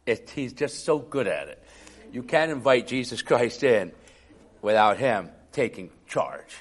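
normal talking voice

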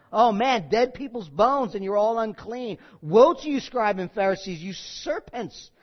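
loud, pounding delivery on each woe; forceful scripture preaching. Acted. Preacher reading Jesus' woes to the congregation, forceful preaching. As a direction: preach the woes hard at the hypocrites.

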